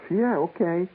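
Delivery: quick keen yes; eager okay. Retold or imitated.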